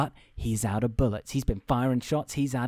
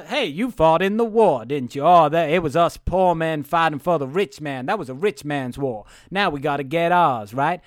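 louder, hammed-up Southern accent; 2 semitones higher, 6 dB louder than usual. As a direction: lay on the Southern accent to rope someone in. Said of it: "where's my Southern accent?".

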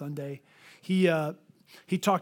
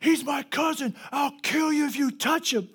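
acted protective threat; 7 semitones higher than usual. Mike defends him with threat.

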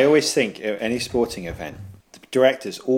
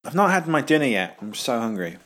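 speaking while chewing; words round a bite of food; mouth full. Real, not acted. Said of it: "Can't eat during the recording".

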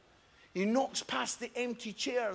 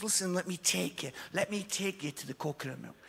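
softer, gentle helpful offer; kindly shop assistant; 3 semitones lower, 4 dB quieter than usual. Retold or imitated. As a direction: coax him along like a kind helper. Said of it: "She goes".

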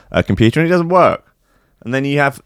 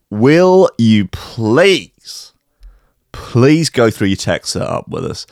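pleading fan voice; slower than usual. Retold or imitated.

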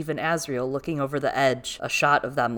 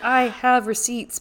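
sassy; 7 semitones higher, 5 dB louder, slower than usual. Retold or imitated. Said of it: "she's like".

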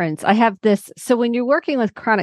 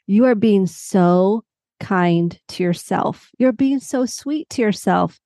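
daughter's voice; slower than usual. Retold or imitated. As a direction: draw it out like an impressed child. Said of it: "she goes".

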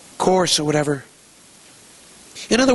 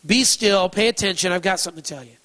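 firm call to attention, easing off at the end; mildly commanding teacher; authoritative; 2 semitones higher than usual. Acted. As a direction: claim the listeners' attention. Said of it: "this is very authoritative".

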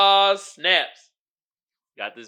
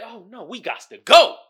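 loud, high mock alarm; mock panic; 7 semitones higher, 13 dB louder than usual. Imitating hometown folks fleeing danger, loud mock panic. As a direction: yell it like you're already running.

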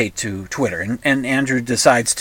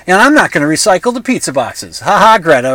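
louder mocking gloat; a bully's sneer, ha ha included; gloating jeer; 4 semitones higher, 5 dB louder than usual. Tate gloats at Greta over the pizza boxes, loud mocking jeer.

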